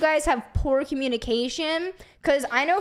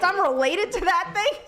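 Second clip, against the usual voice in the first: mock disgust; 5 semitones higher than usual. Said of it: "Nick's sitting here like".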